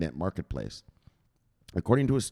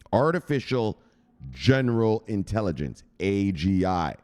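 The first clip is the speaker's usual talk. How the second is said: excited emphasis; 4 dB louder than usual. Real, not acted. Hyping the AGI breakthrough.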